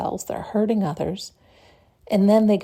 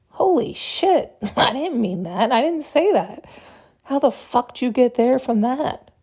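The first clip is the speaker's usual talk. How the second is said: shocked disbelief; 4 semitones higher than usual. Acted. Acted argument, confused partner.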